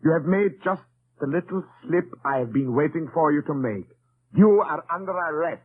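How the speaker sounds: spring the trap on him; triumphant arrest. Acted.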